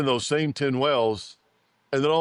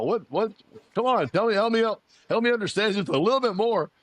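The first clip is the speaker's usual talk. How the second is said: mock pleading; 8 semitones higher than usual. Retold pleading to wealth guy.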